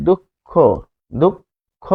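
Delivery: "দুঃখ" as duk, a gap, then kho; doubled consonant. Shown as a demonstration. Teacher models the rule twice, "দুঃখ" said duk-kho. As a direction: hold the k closed in "দুঃখ" before releasing kho. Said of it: "উচ্চারণটা হবে".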